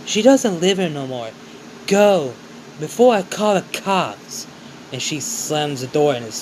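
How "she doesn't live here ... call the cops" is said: angry order to leave. Acted. Mother ordering the visitor off her doorstep, angry. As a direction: slam the words like a door. Mother drives the boy away.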